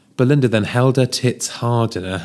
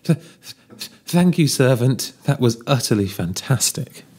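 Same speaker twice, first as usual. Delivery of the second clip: imperious plummy grande dame; 3 semitones higher than usual. Acted. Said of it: "I hate, hate your Duchess voice".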